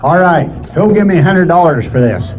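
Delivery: rapid rolling auction chant; auctioneer. Acted. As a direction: rattle off the bids like an auctioneer.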